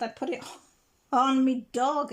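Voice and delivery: laughing confession. Retold or imitated. Dog walker owning up to putting the necklace on his dog, laughing. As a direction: giggle it out like a sheepish joker.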